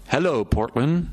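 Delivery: lightly called-out greeting, little extra volume; mild mock yell. A narrator's reading. Boy greets a city from the hilltop, mild mock yell. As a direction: call it out with a restrained yell. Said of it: "alternately yelling".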